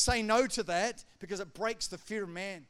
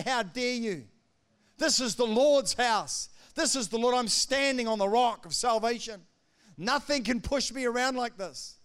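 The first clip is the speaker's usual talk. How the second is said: a David facing Goliath, louder and firm; bold defiance; 3 semitones higher, 5 dB louder than usual. Retold or imitated. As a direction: stand your ground and rebuke the bully.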